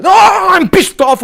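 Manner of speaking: high, loud, drawn-out angry yell; real furious shout. Real, not acted. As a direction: explode with real anger, slowly. Furious outburst on live stream.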